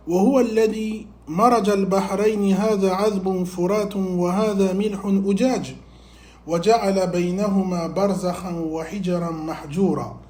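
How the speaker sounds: even, flowing scriptural recitation; Quran recitation. Acted. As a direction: recite the verse with a narrow, steady melody.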